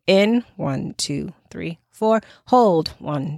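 walk them round the square gently; guided breath count. Shown as a demonstration. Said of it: "I counted around".

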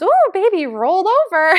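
put-on high, loud kid's gasp of wonder; a little boy thrilled his baby brother rolled; amazed toddler. Big brother announces the baby rolled over, high and amazed. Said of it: "and Julian goes".

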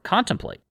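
Contemplate said high on its own, as a pointed one-word echo; single out Contemplate with a high, falling note; stress on contemplate. Shown as a demonstration. Picking out the key word for listeners, with stress on Contemplate. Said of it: "He says contemplate".

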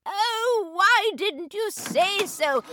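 high, cheerful exclamation; delighted. Acted. Host delighted that Jules brought the story. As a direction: act pleasantly surprised.

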